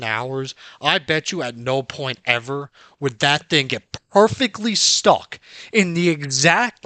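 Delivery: loud, heated disbelief; exasperated rant. Real, not acted. Gamer fuming that the object got stuck by the wall, loud exasperated rant. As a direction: vent loudly that it can't be real.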